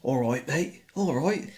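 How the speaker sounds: put-on Essex accent. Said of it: "an Essex accent now".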